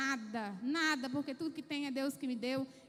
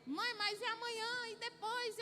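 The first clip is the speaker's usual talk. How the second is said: put-on higher pleading child's voice; a kid asking what comes next; anxious child; 6 semitones higher than usual. Children worrying to their mother, higher voice.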